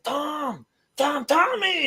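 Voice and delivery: high calling yell. Retold or imitated. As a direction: call out to get his attention. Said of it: "yelling at him".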